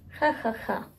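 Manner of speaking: soft, deadpan "ha, ha, ha"; dry mock laugh. Vlogger on waking at half six, dry fake laugh. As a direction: laugh without real amusement, quietly.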